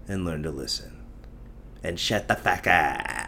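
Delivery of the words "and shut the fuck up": put-on Indian movie accent. Repeats the movie-accent line.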